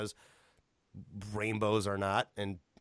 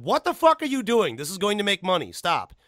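louder and higher, yelling at staff; exasperated boss; 5 semitones higher, 6 dB louder than usual. Retold or imitated. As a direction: bark it like a fed-up boss. Gabe Newell scolding the office.

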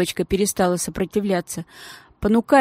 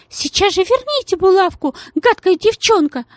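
much higher, louder demand; lady demanding the pin back, angry and high; 11 semitones higher, 5 dB louder than usual. Acted. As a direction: snap at the nasty girl.

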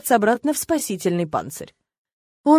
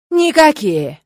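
higher, louder demonic shout; 6 semitones higher, 6 dB louder, slower than usual. Acted. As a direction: bark the refusal. Demon refuses, slams fist.

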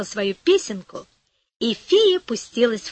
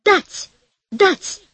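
greedy crone yelling for more; greedy shout; 8 semitones higher than usual. A narrator's reading. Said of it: "крикнула".

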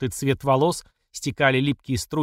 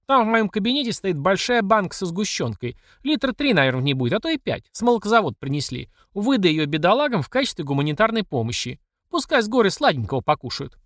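high, sneering charity; mock generous boss; 6 semitones higher than usual. Platsekina mocks the victims with fake kindness, high. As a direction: offer the condensed milk with contempt.

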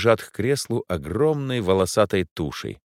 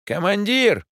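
much higher panicked yell; 13 semitones higher, 4 dB louder, slower than usual. A narrator's reading. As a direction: shout a warning at the commander. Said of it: "заорал Гермес". (громкий крик Гермеса)

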